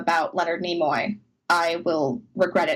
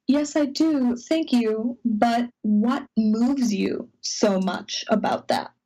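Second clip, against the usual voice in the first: 1 Shatner answering; 3 semitones higher, slower than usual. Retold or imitated. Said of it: "and then he said".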